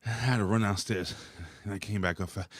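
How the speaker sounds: breathless after running upstairs; winded, catching breath. Real, not acted. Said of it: "I'm sorry I'm out of breath".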